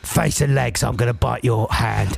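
1 lightly voiced dog. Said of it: "he's a dog".

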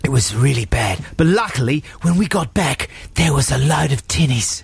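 put-on Aussie mate telling a yarn; badly faked broad Australian; mock Australian accent. Australian friend finishes beach disaster tale, mock Australian accent. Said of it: "they're very poor Australian accents".

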